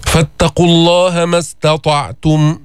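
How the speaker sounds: slow chanted recitation. Shown as a demonstration. Teacher recites the verse for students. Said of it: "ميز التاء عن الطاء".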